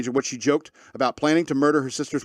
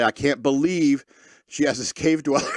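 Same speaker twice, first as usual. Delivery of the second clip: mock outrage. Reading the sister's outraged text aloud.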